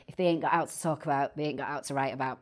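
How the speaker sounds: put-on light Mancunian Salford accent; a hint of a Salford accent for a saying. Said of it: "in my best Manchester accent".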